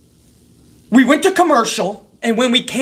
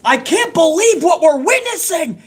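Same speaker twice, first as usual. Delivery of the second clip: mock yell; 7 semitones higher than usual. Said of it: "And he's yelling".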